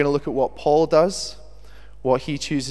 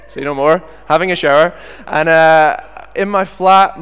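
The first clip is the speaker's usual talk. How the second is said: louder amused storytelling; louder, laughing at own story; 3 semitones higher, 10 dB louder than usual. Real, not acted. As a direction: tell it with a grin.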